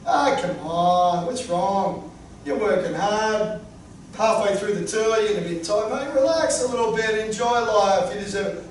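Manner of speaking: a hint of a persuasive tempter; coaxing Fat Wayne. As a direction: Fat Wayne talking him into a few beers. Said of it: "Fat Wayne says".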